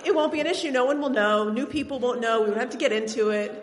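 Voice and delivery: grandparents' plan to remarry her, said through laughter; laughing grandparents' quote. Retold or imitated. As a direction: giggle while voicing the eager grandparents. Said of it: "They're like".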